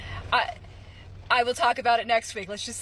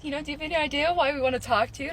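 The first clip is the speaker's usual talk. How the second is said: mock HR lady; 5 semitones higher, much faster than usual. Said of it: "this white HR lady's like".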